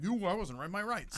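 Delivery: lightly voiced self-mocking white dude; self-parody of a clueless indignant guy, not shouted. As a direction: replay the protest as a silly, entitled whine. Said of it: "I'm a white dude that's like".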